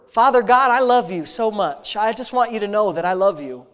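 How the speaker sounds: earnest, intimate prayer voice, addressing God like a father; heartfelt spoken prayer. Real, not acted. Pastor leading his congregation in prayer, earnest and intimate. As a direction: pour out thanks to God in an earnest rhythm.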